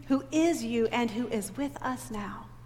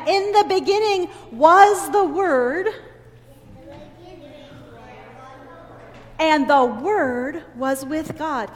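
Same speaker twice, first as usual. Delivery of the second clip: put-on slow, deliberate reading to children, louder; slow scripture reading; 3 semitones higher, 8 dB louder, slower than usual. Shown as a demonstration. Teacher reading the verse to the children, slow and deliberate. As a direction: lay each word out slowly for the kids. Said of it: "let's listen to it again".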